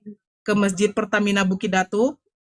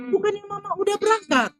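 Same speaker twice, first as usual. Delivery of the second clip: surprised question; 12 semitones higher than usual. Retold or imitated. Narrator shocked to hear her mother never left, surprised question. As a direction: pitch leaps up in disbelief.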